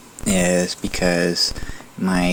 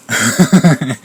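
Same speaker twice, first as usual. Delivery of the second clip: laughing; 6 semitones higher, 8 dB louder than usual. Real, not acted. Laughs at typing Gorey.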